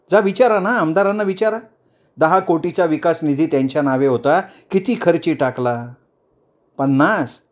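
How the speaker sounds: lightly voiced leader daring the crowd; challenging politician. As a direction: she puts pointed questions to the protesters. Speech to crowd continues.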